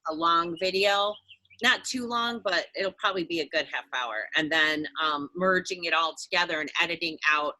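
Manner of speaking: talking while chewing gum; words round a wad of gum. Real, not acted. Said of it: "I hate when I chew the gum".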